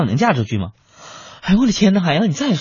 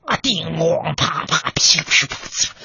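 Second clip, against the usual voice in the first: whispered slap sounds; 4 dB quieter, slower than usual. Retold or imitated. Imitating slaps.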